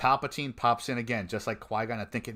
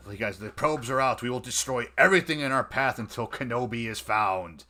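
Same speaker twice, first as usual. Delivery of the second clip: lightly acted angry villain giving orders; a touch of stern command, barely in character; angry Vader; 2 semitones higher, 4 dB louder than usual. Vader ordering the hunt for Kenobi, mildly angry imitation. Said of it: "all, like, angry and emo".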